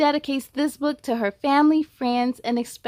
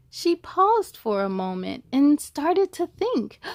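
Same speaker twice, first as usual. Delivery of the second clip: story narration. A narrator's reading. Reads rhyming picture book.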